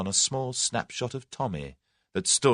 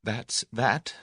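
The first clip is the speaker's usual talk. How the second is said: stern; 3 semitones higher than usual. A narrator's reading. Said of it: "she observed sternly".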